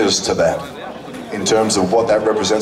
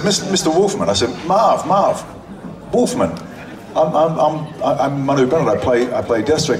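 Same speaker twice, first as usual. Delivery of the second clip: eager fan; 5 semitones higher than usual. Retold or imitated.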